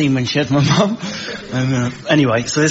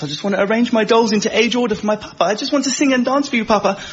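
put-on little girl voice; 7 semitones higher, faster than usual. Voicing little girl princess.

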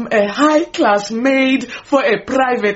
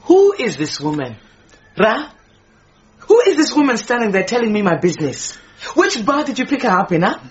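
indignant outburst; faster than usual. Acted. Maid angrily accuses the stranger.

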